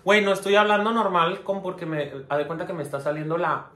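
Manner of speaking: jaw half open, sore tooth; can't quite close the mouth; wisdom tooth pain. Real, not acted. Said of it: "por eso estoy hablando como que extraño".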